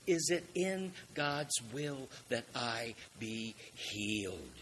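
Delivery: slow, measured plea; deliberate, spaced-out question; earnest question. Retold or imitated. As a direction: ask it slowly, weighing each word. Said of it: "is what he is asking".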